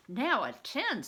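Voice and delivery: calling attention. Acted. Monk finishes writing, calls attention.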